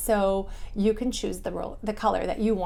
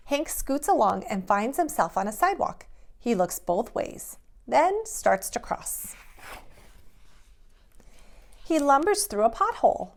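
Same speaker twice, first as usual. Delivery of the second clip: lively, bouncy picture-book narration; animated storytime read-aloud; reading to children; 2 semitones higher, 3 dB louder than usual. A narrator's reading. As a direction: read it like a bedtime story to little kids.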